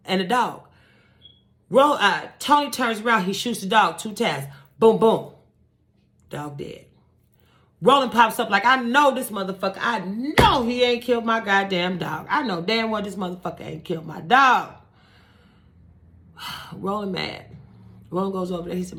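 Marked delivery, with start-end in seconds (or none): 4.8-5.3 two punchy vocal booms; imitated gunshots. Storyteller voices the shots that kill the dog, imitated gunshots. 8.7-14.7 outraged disbelief. Retold or imitated. Retold man outraged over his dog.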